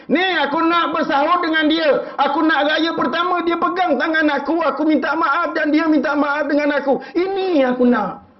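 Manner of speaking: high, anguished acted lament; imitated tearful outburst, pitched far up; weeping father's plea. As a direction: pour out a father's longing for their child. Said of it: "Kenapa pakcik menangis?".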